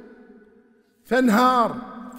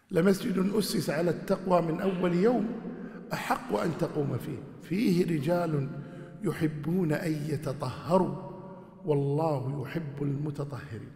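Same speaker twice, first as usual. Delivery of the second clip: Quran recitation; 2 semitones lower, slower than usual. Acted. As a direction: recite the verse with measured tajweed. Quran verse recited in lesson.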